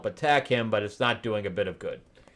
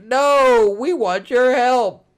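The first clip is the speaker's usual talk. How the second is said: much higher, louder backpedalling; hurried heroes; 13 semitones higher, 9 dB louder, slower than usual. Retold or imitated. Heroes correcting themselves to the giant, high and loud. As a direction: quickly backpedal. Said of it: "They're like".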